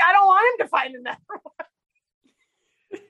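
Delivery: high, slow whine breaking into a laugh; whiny sister. Retold or imitated. Sister refusing another duck hunt, high laughing whine. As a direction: plead like a tired sister who's had enough. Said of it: "And she's like".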